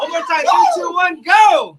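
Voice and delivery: high, loud countdown shout; rally the room like a coach; powerful shout. Shown as a demonstration. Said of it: "most powerful Intentional voice".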